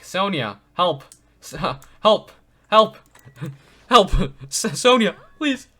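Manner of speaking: high, loud, laughing calls for help; laughing plea for help. Real, not acted. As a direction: giggle while crying out for help. Laughing, begging Sonia for help.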